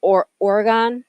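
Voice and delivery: "Oregon" ending in "gone"; pronunciation check. Shown as a demonstration. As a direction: say "Oregon" with an open final "gone", as a question. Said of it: "which is the correct pronunciation".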